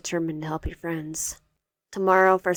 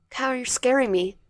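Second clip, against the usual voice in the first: higher, louder, frightened plea; 6 semitones higher, 4 dB louder than usual. Acted. Wyatt frightened of Cairo in her bedroom, higher pleading. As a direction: push him back with fear.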